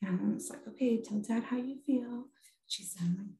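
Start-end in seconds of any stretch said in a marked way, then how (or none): 0.7-2.2 soft, higher motherly prompt; retold soothing mom voice; gentle coaxing. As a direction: coax a child quietly to speak up. Mom coaxing daughter to speak, retold.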